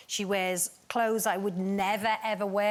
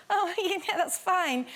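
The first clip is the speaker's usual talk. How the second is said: meek and polite; 8 semitones higher, slower than usual. Pretend. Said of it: "if I'd been Ruth Jones, I'd have gone".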